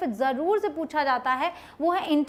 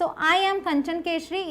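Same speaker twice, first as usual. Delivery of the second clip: slow example; slower than usual. Shown as a demonstration.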